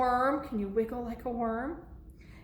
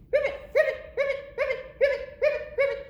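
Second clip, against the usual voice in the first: rapid string of high ribbits; frog croaks; 4 dB louder, much faster than usual. Acted. Piggy pretending to be a frog, high croaks. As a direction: squeak out frog calls in bursts.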